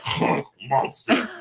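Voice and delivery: slow, haughty British lilt; uppity mock-British huff; almost British. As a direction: sniff it like an offended British gent. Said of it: "he gets almost British".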